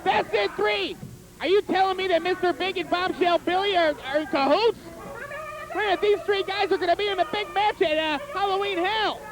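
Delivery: hyped ringside play-by-play; wrestling commentator. Pretend. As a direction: shout the action like a TV announcer.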